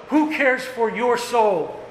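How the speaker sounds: who drawn out high and slow, sinking at the end; slow searching question. Acted. Preacher probing the congregation about their souls, slow and high. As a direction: ask it slowly, letting it land.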